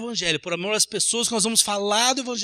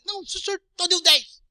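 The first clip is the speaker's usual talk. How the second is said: cashier raising voice; 8 semitones higher than usual. Acted. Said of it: "a bichinha também sobe".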